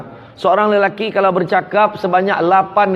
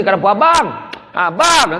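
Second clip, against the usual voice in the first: coaxing wife; 5 semitones higher than usual. Retold or imitated. Wife calling silent husband.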